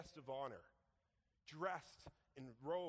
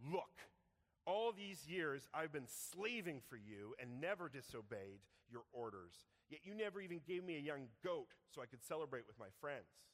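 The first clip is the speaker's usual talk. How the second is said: resentful complaint. Acted. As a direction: confront the father with years of grievance. Son's angry complaint to father.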